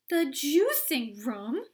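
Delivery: loud, slow alarmed cry; cried. A narrator's reading. Mother crying out in alarm at Mr Wonka. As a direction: cry out in shock. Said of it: "cried Missus Beauregard".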